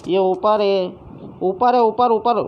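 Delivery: high, loud callouts; urgent shout. Real, not acted. Player shouting enemy positions to teammate under fire, loud and high. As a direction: point the enemy out fast.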